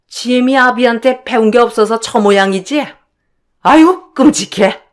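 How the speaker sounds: lightly voiced scornful mother-in-law; appalled mother-in-law. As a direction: rant in disbelief at the daughter-in-law. (기막혀하는 시어머니 말투)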